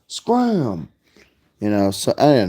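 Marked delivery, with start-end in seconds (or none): 0.1-0.9 high, gruff "Scram!"; mock Oscar the Grouch snap; grouchy scram. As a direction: bark it like a grouch shooing you off. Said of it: "he goes".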